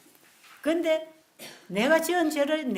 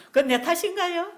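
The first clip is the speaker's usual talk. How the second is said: laughing question; 6 semitones higher, 7 dB louder than usual. Real, not acted.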